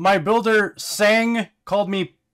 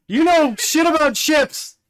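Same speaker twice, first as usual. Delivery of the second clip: higher, louder mock outburst; mock yell; 8 semitones higher, 4 dB louder than usual. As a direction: bark it out playfully.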